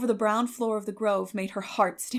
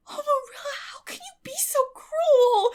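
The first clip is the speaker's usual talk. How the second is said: sobbing plea; 6 dB louder than usual. A narrator's reading. Anne begging Marilla not to send her, sobbing. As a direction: sob it out, begging for mercy. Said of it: "sobbed Anne".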